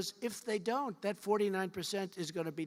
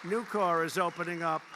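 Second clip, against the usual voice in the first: emphatic; 6 dB louder than usual. Real, not acted. Repeated name, first take louder.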